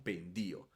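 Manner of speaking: "pendio" stressed on the i, pen-DI-o. Shown as a demonstration. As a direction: put the accent on the i of "pendio". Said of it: "el acento lo agrego sobre la I". ("pendio" con acento en la i, pen-DI-o)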